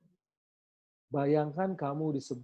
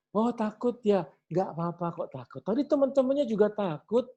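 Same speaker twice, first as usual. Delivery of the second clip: gentle comfort; 5 semitones higher than usual. Shown as a demonstration. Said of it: "Kalau perlu dipeluk dulu".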